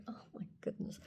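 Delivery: very soft, breathy retold disbelief; overwhelmed whisper. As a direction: whisper it as if overcome.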